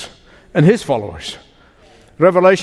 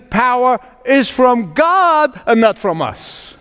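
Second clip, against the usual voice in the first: impassioned preaching. Real, not acted. Preacher answering why believers suffer, impassioned preaching. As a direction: preach it out with weight on each phrase. Preaches Scripture at full force.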